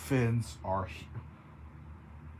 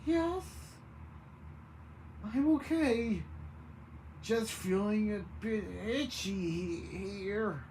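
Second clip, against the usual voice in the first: very quietly; 7 semitones higher, 3 dB quieter than usual. A narrator's reading. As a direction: answer in a small, high voice. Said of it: "said very quietly".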